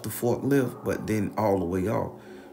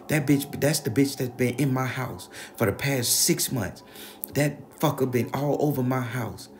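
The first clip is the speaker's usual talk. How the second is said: raised, higher-pitched accusing rant, imitated; indignant grandma; 4 semitones higher than usual. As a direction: play a grandma laying out her accusation. Acted grandma accusing the friend.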